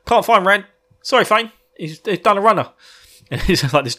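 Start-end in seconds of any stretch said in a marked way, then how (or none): 0.1-2.7 nervous minion. Retold or imitated. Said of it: "came to him and said".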